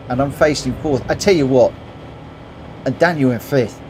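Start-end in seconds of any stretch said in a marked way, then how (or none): 1.1-3.8 talking with hiccups; hiccuping between words. Real, not acted. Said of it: "Sorry, I've got hiccups now".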